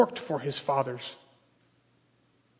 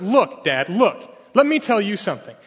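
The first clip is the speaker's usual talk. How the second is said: disrespectful; 4 semitones higher, 4 dB louder than usual. Retold or imitated. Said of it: "like he's talking to a servant".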